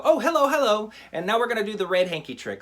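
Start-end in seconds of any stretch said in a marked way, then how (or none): 0.0-0.9 a high, hammed-up happy hello; imitating cheerful hellos. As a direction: play the other performers' happy gag. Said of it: "they go".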